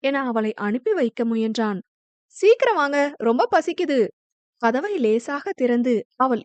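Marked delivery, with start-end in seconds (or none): 2.4-4.0 wife calling. Acted. Wife calls husband to eat.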